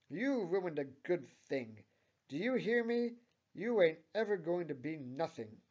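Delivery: high, loud angry yelling; screaming. A narrator's reading. Manager Steve as Tammy walks off, screaming out. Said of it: "screams out Steve".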